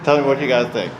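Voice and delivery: slightly slurred numb-mouth speech; numb from the dentist. Real, not acted. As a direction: talk with a numb mouth after dental work. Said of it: "I'm talking a little funny 'cause my mouth is still numb".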